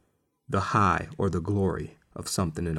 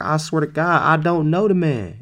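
louder, high-pitched protest; mock vehement denial; 7 semitones higher, 5 dB louder than usual. Peter denying Jesus to the girl, loud exasperated protest. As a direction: swear it insistently, voice raised high.

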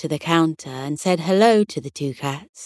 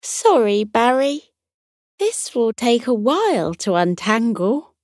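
sheepish; 5 semitones higher than usual. Acted. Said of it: "smiled sheepishly at Barry".

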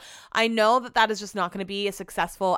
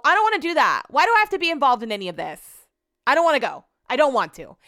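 higher, louder whine of refusal; a real grumble, pitched up; whiny protest; 4 semitones higher, 4 dB louder, faster than usual. Real, not acted. Complaining about Home Depot trip.

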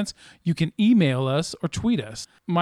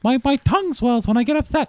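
lisp; 6 semitones higher than usual. Pretend. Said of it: "Why do you have a lisp?".

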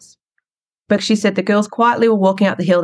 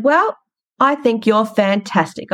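proud praise; 4 semitones higher, slower than usual. Retold or imitated. Mum praising daughter warmly.

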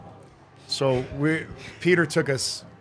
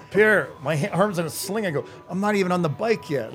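retold protest; 5 semitones higher than usual. Retold protest to team boss.

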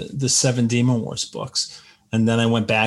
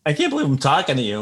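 starstruck; faster than usual. Retold or imitated. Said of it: "And I'm like".

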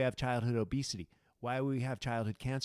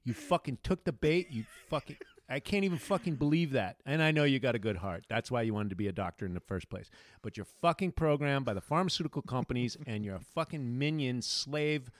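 ranting at doctors; 3 dB louder than usual. Acted.

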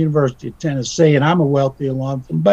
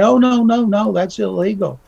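higher, mock-shocked denial from a sly agent; mock innocent agent; 4 semitones higher than usual. Agent to recruit, faking innocence about illegal payments, mock-shocked and higher. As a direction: feign being shocked at the very idea. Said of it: "they're gonna say".

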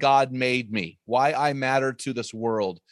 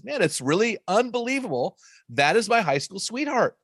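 quoting Barbara; 7 semitones higher than usual. Retold or imitated. Wife quoted in anecdote, higher.

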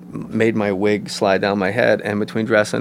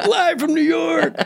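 much higher, slow mock shout; half-crying hammed-up open; Farley bellow; slower than usual. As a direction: yell it like Chris Farley bursting in. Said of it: "Farley shouting cold open".

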